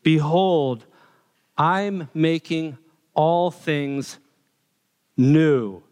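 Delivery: slow booming proclamation as through a megaphone. Pretend. Preacher quoting God on the throne, megaphone-like voice. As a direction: announce it slow and grand like a megaphone. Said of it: "in that megaphone voice".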